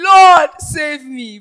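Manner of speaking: drawn-out preacher's cry for help; dramatized cry for rescue. Acted. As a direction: call out to the Lord as if sinking. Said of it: "he cried".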